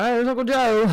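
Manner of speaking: playful retold call-out; mock excited family greeting. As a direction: imitate relatives happily spotting the uncle. Family spotting uncle's plane landing.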